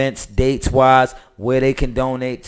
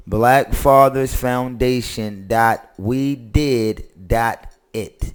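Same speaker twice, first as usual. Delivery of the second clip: very slow, deliberate, spelled out word by word. Repeating a donation web address a second time: saying it slowly. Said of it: "I'ma say that again slow".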